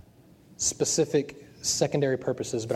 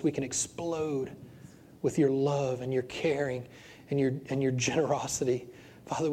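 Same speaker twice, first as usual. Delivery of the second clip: earnest pastor's prayer voice; closing prayer. Acted. Pastor praying over his standing congregation, earnest prayer. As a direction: pray over them, earnest and fervent.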